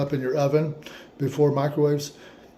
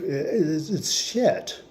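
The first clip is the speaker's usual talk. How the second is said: laughing; 7 semitones higher, much slower than usual. Real, not acted. Laughing at the grave.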